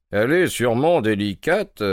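lifted pitch with a slight smile; smiling reply. A narrator's reading. Detective answering his worried client, smiling reply. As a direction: answer with an amused lilt. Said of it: "répondit mon ami en souriant".

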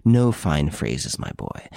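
put-on slow, dropping to a near whisper on my boy; cold stern detective. Ex-inspector silencing Victor's speech, slow and menacing. Ex-inspector seizes his arm.

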